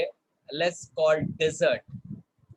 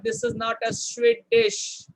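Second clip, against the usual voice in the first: sharply higher, teasing correction; correcting pronunciation. Shown as a demonstration. Teacher correcting a student's sweet dish mix-up, teasing pitch jump. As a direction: pitch jumps way up on this is not. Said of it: "This is a desert".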